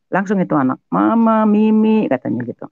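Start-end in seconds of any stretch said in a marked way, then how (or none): 0.9-2.0 put-on high, loud little-kid plea; small child calling. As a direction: imitate a toddler calling mother. (menirukan anak kecil memanggil)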